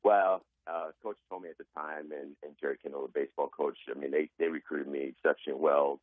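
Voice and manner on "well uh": normal talking voice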